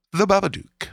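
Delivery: high, lightly hammed-up monster-movie voice; spooky title call. Host to players revealing the horror film, mock-spooky.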